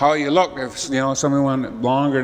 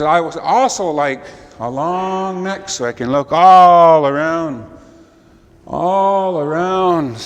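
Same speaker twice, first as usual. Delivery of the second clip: high, slow owl voice; drawing out all around; 3 semitones higher, 4 dB louder, slower than usual. Acted. Owl asks the creator for a long neck, high and slow.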